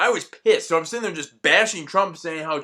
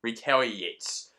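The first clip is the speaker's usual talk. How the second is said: mock suggestion; slower than usual. Suggesting America talk like this, mock voice rising to a laugh. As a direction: pretend America, half laughing. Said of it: "be like".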